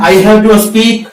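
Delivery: slow, careful English model line; "I have to speak" drawn out word by word for learners; slow drill. Shown as a demonstration. Teacher models English for Hindi-speaking students, slow and careful. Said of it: "first form में आपको बोलना है".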